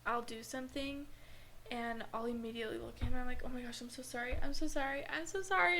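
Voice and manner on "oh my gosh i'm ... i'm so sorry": rising, louder panicked sorry; frantic apology. Retold or imitated. Retelling her panicked apology to her boyfriend. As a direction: spill out the apology in a rush of panic.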